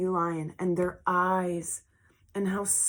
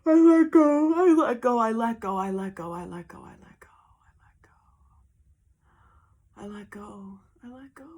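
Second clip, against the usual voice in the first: fading mantra; 4 semitones higher, 7 dB louder than usual. Real, not acted.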